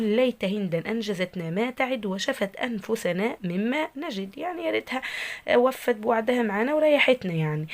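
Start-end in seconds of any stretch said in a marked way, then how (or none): 0.0-4.4 slow, measured reading of a poetry line; verse recitation. Shown as a demonstration. Teacher quoting the verse to students, slow measured recitation. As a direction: recite the line deliberately, giving each word its length. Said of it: "طبعًا البيت بيقول".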